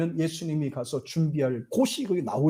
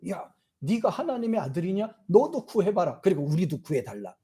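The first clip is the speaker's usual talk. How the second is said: mocking taunt; 3 semitones higher, 3 dB quieter than usual. Thief on the cross taunting Jesus, mild jeer. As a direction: sneer at him like a mocking criminal. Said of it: "뭐라 그래요?".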